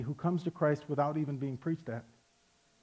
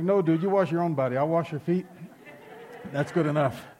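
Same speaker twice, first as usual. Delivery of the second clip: casual dude Jesus; 4 dB louder than usual. Retold or imitated. Jesus answers Peter casually.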